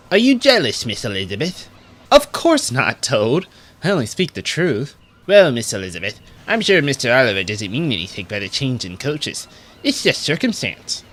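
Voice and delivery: a lightly voiced, courteous young engine; polite little Toad. Toad reassures Elizabeth, courteous and light. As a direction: gently soothe the upset coach, a hint of Toad.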